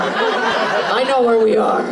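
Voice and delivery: slow, knowing repeat; teasing the crowd member, slowly. Shown as a demonstration. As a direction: draw it out pointedly. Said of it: "repeats the line".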